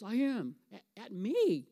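retold irritation, punched out; mad. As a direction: imitate an irritated man snapping back. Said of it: "you act like you're really mad".

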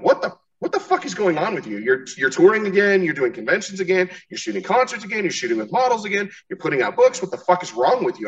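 high-pitched mock disbelief; incredulous. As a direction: rattle it off as everybody's baffled reaction. Acting out everybody's disbelief at them.

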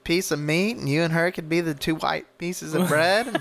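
hammed-up sleazy motel clerk; mock sleazy clerk. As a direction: pitch it up, smarmy and suggestive. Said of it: "he's like".

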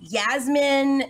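"Yasmin" with an initial y sound; Spanish-style variant. Shown as a demonstration. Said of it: "it's Spanish pronunciation".

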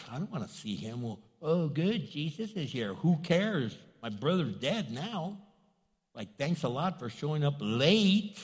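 sarcastic, sulking complaint; mock sulky anger. Preacher acts Mary mad at Jesus for being late, mock sulk. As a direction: act fed up and sarcastic, only mildly angry. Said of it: "She's mad at him".

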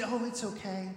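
softly coaxing a friend; acted gentle, slightly soft comforting; gentle reassurance. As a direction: soothe a struggling friend. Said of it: "at first he's very gentle about it".

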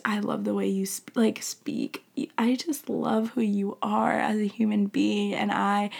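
lightly voiced loving God; tender God voice. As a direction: whisper love to a child. God speaking tenderly to listener.

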